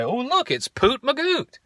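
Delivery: put-on high toddler voice; imitating little daughter. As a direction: chirp it like a delighted three-year-old. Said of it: "like, say".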